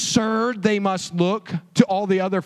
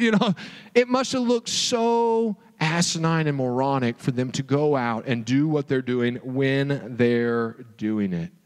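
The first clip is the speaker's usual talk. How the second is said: ordinary delivery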